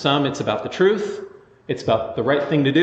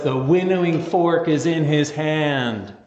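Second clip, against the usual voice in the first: prophet John; slower than usual. Retold or imitated. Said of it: "because John says".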